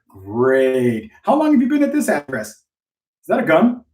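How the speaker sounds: rambling agent. Retold or imitated. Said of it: "You go there and be like".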